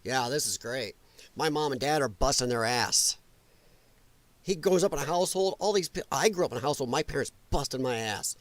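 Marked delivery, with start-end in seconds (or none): 0.0-3.2 sarcastic quote. Retold or imitated. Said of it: "that young person's gonna go".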